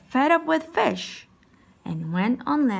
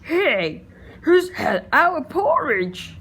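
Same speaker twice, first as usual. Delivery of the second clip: indignant bears; 4 semitones higher, slower than usual. Acted. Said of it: "three indignant bears who cried".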